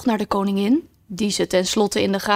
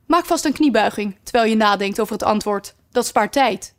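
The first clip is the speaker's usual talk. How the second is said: commanding queen. Acted. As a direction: order the girl about sharply. Red Queen instructing.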